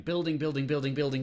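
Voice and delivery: each building a touch stronger; building up the word; growing building. Shown as a demonstration. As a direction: press the repeats forward. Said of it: "has to be building".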